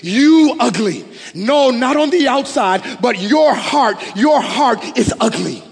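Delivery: loud, high, emphatic retort in imitated Iraqi broken English; forceful mock rebuke in broken English. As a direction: mimic an indignant Iraqi man, hammering each word slowly. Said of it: "his Iraqi accent, his broken English".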